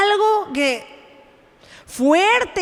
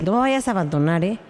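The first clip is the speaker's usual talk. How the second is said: a hammed-up clingy plea, pitched lower and rushed; mock pleading; 8 semitones lower, faster than usual. Preacher imitating Jesus begging one disciple, mock pleading. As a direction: beg each one not to go, half-joking. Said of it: "No fue de uno por uno a decirles".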